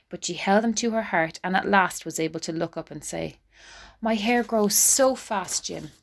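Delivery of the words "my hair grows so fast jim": tearful. Acted. Della through tears.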